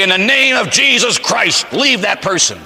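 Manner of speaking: high, slow, commanding proclamation; exorcist's command. Retold or imitated.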